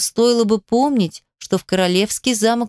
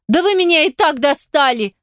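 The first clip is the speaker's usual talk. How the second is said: exasperated retort; 6 semitones higher than usual. A narrator's reading. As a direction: throw it back at him, exasperated. She snaps back at the king. (раздражённо и громко, на высоких нотах)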